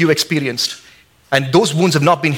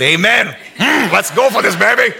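eager redneck cheer, higher, with a laugh; hammed-up redneck; 5 semitones higher than usual. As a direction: cheer like a redneck ready to eat. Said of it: "And all the rednecks said".

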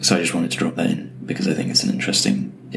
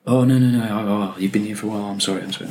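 flustered apology; 3 semitones higher than usual. Retold or imitated. Co-founder apologising to a new employee, mock flustered. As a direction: hurriedly take it back, mildly hammed-up.

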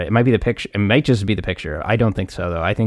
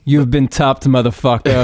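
mock taunt; 4 semitones higher, 5 dB louder, slower than usual.

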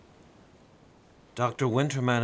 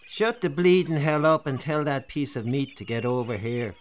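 thug shout; 6 semitones higher, 7 dB louder than usual. A narrator's reading. Skinhead leader bullying the doctor.

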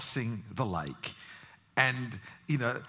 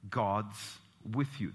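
slower reassurance; 4 semitones lower, much slower than usual. Real, not acted. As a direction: let each word settle gently. Repeated reassurance.

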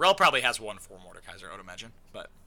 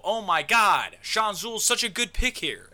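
hyped fan; 6 semitones higher than usual. Acted. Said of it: "you go".

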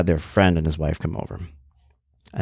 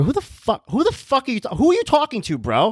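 put-on high, heated street-accent challenge; tough accent coming out. Mover losing it at the stranger, heated tough accent. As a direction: stammer into an indignant tough-guy accent. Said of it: "it starts coming out and it starts, like, going hard".

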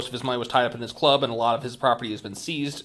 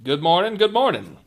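folksy Midwestern greeting, rising; Midwestern accent; 5 semitones higher, 6 dB louder than usual. Acted. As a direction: greet like a friendly farmer. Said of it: "Midwestern stereotype".

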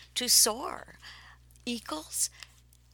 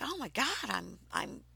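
thrilled; 3 semitones higher, 4 dB louder than usual. Retold or imitated. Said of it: "I'm like".

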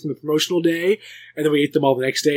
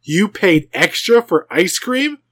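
disgusted; 3 semitones higher, 3 dB louder, slower than usual. Retold or imitated. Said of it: "The disgust on his face".

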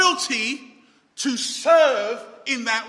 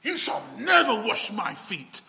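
crying out. Retold or imitated. Peter refusing Jesus at the foot washing, mild retold cry. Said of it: "Peter cries out".

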